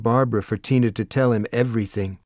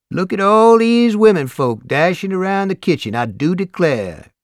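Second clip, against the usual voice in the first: amused; 7 semitones higher, 6 dB louder than usual. A narrator's reading. Brother teasing the women in the kitchen, amused. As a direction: draw it out with mock amazement, high and loud. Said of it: "an amused voice says".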